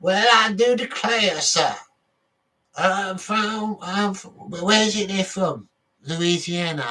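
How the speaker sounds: high, slow Southern drawl, hammed-up; southern gentleman accent. Vlogger to viewers, a playful mock Southern gentleman accent. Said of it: "I could be like a southern gentleman".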